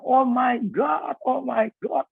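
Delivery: high, drawn-out mock scream without much volume; imitating panicked cries. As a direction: imitate passengers crying out, stretched and high. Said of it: "Semua pada teriak".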